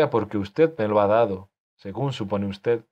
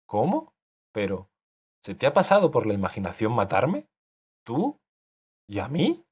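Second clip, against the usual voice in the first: outraged disbelief. Acted. Author outraged, threatened by character.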